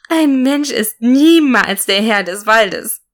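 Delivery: slow, piercing witch-like screech; evil fairy mocking the warrior from the clouds, slow and shrieking. A narrator's reading. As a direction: drag the words out like a scornful fairy. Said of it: "tönte es kreischend heraus".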